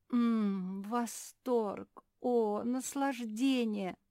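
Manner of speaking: high, slow blissful relish. Acted. Seamstress tasting chocolate, blissful. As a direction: swoon over the taste.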